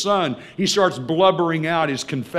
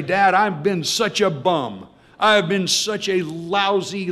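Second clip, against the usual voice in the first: pleading confession; 5 semitones higher, 3 dB louder than usual. Acted. Son pleads with his father to be a hired servant, pleading. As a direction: confess your failings and beg, drawing the words out.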